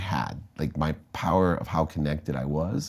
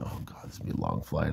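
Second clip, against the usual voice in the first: eye-rolling; 4 semitones lower, 9 dB quieter than usual. Retold or imitated. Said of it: "I rolled my eyes going".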